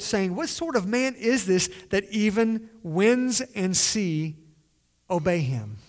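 measured, solemn Bible reading voice; scripture reading. Acted. Pastor reads Matthew's storm to the congregation, solemn reading.

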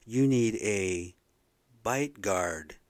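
slow, drawn-out mock dentist voice; imitating the dentist. Dentist telling him he needs a bite guard, slow mock advice. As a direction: lightly play the dentist laying out his advice. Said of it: "and they say".

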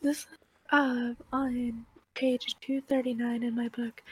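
normal talking voice

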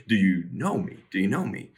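sarcastic jab, pitch jumping on "know"; soft, pointed sarcasm with a swoop on the key word. Acted. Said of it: "maybe they sarcastically say the words".

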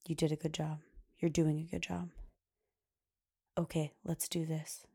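calm, quiet encouragement. Retold or imitated. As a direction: quietly coach someone through it, unruffled. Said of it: "he was quiet, and he was put together".

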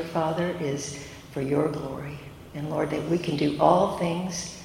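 soft, reverent prayer voice. Acted. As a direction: pray it quietly and humbly.

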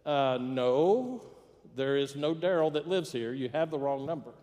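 measured, mildly strained phone reply; understated tension, firmly spaced words; a little tense. Acted. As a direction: correct the caller with restrained impatience. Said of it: "a little more tense this time".

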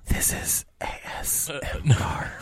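mock ASMR whisper. Joking into a captured mercenary's headset, ASMR whisper. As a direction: whisper it close, like an ASMR video.

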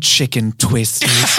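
very slow mock ASMR; teasing ASMR encore. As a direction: draw each word out for the microphone. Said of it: "I can never do fucking A S M R".

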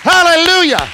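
rally the church with rising fire; fiery preaching. Acted.

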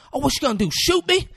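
shrieking, very high and loud, slowing at the end; screaming taunt. Retold or imitated. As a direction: scream it out for the whole street. Woman screaming to her son.

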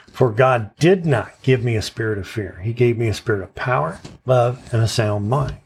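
"did not" punched with a jump in pitch; stress on did not. Shown as a demonstration. Teacher moves the emphasis along the verse, stress on "did not". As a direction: hit "did not" hard, then carry on through the verse. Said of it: "keep moving that emphasis on the next word".

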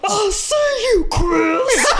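hammed-up furious mom; threatening mom. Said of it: "my mom turns around and is like".

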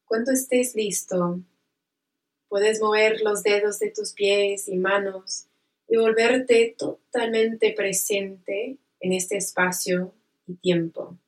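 slow, soothing meditation guide; calm guided relaxation voice. Acted.

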